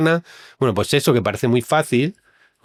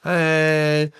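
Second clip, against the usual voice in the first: voiced confession; 4 semitones higher, slower than usual. Acted confession in hypothetical dialogue.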